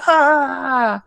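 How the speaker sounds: high, drawn-out "ahh"; acted "ah". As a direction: let out a high mock cry. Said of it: "everyone's like".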